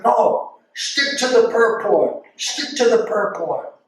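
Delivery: retold scream. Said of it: "he starts, like, screaming at me".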